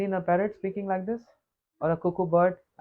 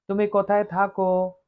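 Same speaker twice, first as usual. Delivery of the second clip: parrot voice. Retold or imitated. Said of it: "Speaking like this".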